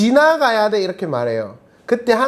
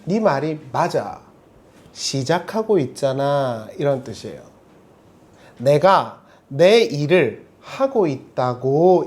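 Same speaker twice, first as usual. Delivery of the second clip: kind reassuring God; 3 semitones lower, slower than usual. Retold or imitated. God answering Jeremiah's complaint, slow and reassuring. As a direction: reassure them slowly and kindly. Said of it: "저는 F처럼 듣기로 했어요".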